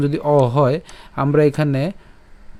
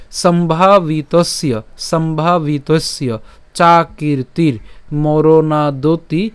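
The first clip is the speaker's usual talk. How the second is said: slow, measured Sanskrit reading; careful model recitation; verse recitation; much slower than usual. Shown as a demonstration. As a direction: recite the line in spaced chunks with long vowels. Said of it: "আমি আবার যদি প্রথম থেকে উচ্চারণটা করি".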